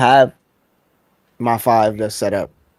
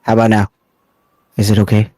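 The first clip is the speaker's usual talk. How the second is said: ASMR voice; 5 dB louder, much faster than usual. Shown as a demonstration. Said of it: "that was sexy".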